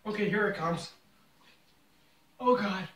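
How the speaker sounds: eyes watering, voice strained; teary from spicy pepper. Real, not acted. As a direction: talk through stinging watery eyes. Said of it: "You're crying".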